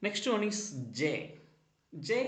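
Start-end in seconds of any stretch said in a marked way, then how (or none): 2.1-2.2 "j" as "juh"; soft g sound. Shown as a demonstration. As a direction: say "j" as the first sound of George, not "jay". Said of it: "letter pronounce ചെയ്യുന്നത്".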